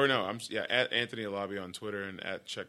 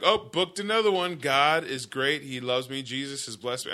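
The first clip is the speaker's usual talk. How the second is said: mocking smug actor; 3 semitones higher than usual. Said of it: "or they're like".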